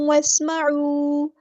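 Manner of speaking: वस्मऊ drawn out very slowly; slow recitation. Shown as a demonstration. Teacher modelling the word for students, very slow. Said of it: "क़ाफ हमारा heavy letter है".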